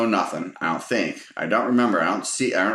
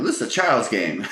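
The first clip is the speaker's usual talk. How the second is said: goofy mock complaint; 3 semitones higher than usual. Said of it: "just being goofy".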